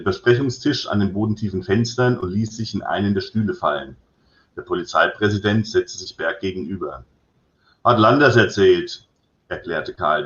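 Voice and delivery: reading his novel aloud, voicing the dialogue; story narration. A narrator's reading. Author reading his crime novel scene to listeners, lively story narration. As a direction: tell it like a crime story read to an audience.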